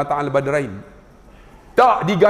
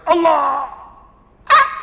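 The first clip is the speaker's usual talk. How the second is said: mock local takbir; 10 semitones higher, slower than usual. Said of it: "Ulu Langat lah tu".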